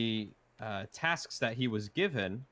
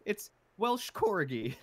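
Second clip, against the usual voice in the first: high, slow, hammed-up British accent; fake British accent; 9 semitones higher, slower than usual. Quoting the movie's disguised hero in a fake British accent. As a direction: drawl "Welsh Corgi" in a silly British voice. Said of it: "horrible British accent".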